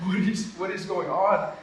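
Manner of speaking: loud, high, drawn-out disbelief; stunned outcry, re-enacted; retold bewilderment. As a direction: act out being totally overwhelmed and baffled. Retells his shock during the prayer.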